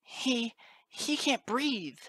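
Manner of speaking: very high, loud panicked teacher; shriek. A narrator's reading. Teacher seeing colt strangled, panicked shriek. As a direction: shriek it in alarm, stretching the words. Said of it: "Cheerily shrieked".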